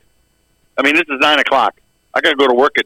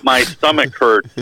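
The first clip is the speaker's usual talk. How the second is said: mock sick call; 3 semitones higher, slower than usual. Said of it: "be fucking straight-faced about it".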